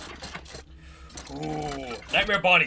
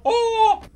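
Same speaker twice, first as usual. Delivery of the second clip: high, louder startled "oh"; startled yelp; 5 dB louder than usual. Real, not acted. Gamer jumped by an animatronic, startled yelp. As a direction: yelp in sudden surprise. Startled during game encounter.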